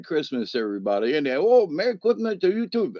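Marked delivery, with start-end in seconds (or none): 1.4-2.9 higher-pitched imitation with altered consonants; mimicking restaurant family. Restaurant family returning Christmas greeting, mimicked in high voice. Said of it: "I don't mean to mock them".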